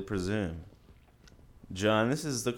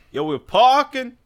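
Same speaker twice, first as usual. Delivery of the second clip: slang guy voice; 13 semitones higher, 11 dB louder than usual. Retold or imitated. Repeats the slang voice.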